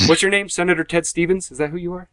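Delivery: mock incredulous questioning. Acts out mocking reply to client.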